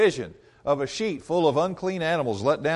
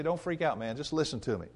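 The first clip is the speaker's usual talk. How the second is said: calming Peter. Acted. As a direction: talk them down easy. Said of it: "Peter has to say".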